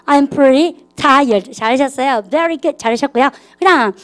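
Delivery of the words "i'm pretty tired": slow model sentence. Shown as a demonstration. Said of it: "꽤 피곤해".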